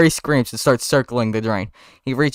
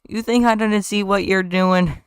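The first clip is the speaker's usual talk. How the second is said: menacing; 8 semitones higher, slower than usual. Acted. Ken accusing Barry.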